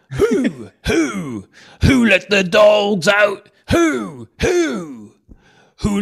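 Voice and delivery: barked high whoops like a dog; barking who. Pretend. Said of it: "See if you can do this in a British accent".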